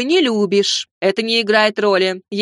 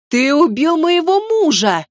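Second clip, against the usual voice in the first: accusing outburst; 6 semitones higher than usual. A narrator's reading. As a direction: drag the word out, then hurl the accusation. Grandmother accuses father of murder.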